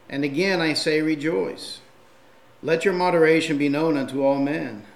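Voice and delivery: preacher reading Philippians aloud to his church; scripture reading. Acted. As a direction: read the passage out to the congregation. Reads scripture passage aloud.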